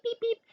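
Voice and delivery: high beep noise, lightly mimicked; mock ringing beep; imitated phone beep. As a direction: squeak out like a phone going off.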